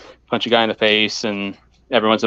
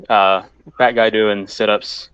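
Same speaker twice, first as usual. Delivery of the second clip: winded after sit-ups, puffing between words; out of breath. Real, not acted. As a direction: talk while catching your breath. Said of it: "get my breath back, sorry".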